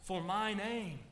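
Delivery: slow, weighty reading of the promise; solemn proclamation. Acted. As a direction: proclaim each word slowly. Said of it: "he says".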